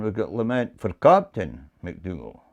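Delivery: "Captain" accented above the other words; stress on Captain. Shown as a demonstration. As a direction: put the weight on "Captain". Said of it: "change it to the third one".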